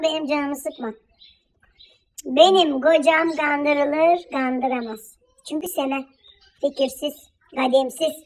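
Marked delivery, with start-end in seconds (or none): 2.2-8.1 slow contempt. Acted. Wife coldly belittles the neighbour's husband, slow and low. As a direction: spell out each insult with disdain.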